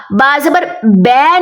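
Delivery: "बै" ending like English bay, not ba; wrong ending bai. Shown as a demonstration. Teacher demonstrating the wrong "बै" to students. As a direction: end on "बै" with a flat bai sound. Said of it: "नहीं करना".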